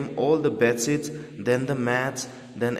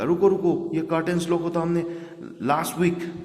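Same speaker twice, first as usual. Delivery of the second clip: shouting; 5 semitones higher than usual. Retold or imitated. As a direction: yell to stop the tub. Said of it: "वास्तव को चिल्लाने लगा". (ऊँची आवाज़ में चिल्लाना)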